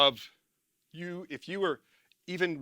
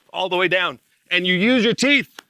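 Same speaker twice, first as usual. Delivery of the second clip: loud, higher-pitched call; raised voice; 3 semitones higher, 9 dB louder than usual. Real, not acted. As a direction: project it loudly, pitched up. Calling out over the demonstration.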